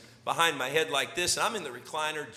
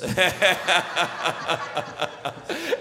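staccato laugh; 2 semitones higher than usual. Retold or imitated. Son's catcall ends in laugh.

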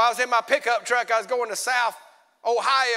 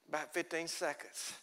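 normal talking voice

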